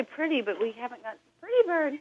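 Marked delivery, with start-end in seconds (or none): 0.0-0.4 high parrot squawk. Retold or imitated. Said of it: "he will say". 1.4-1.9 high parrot voice. Retold or imitated. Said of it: "he will say".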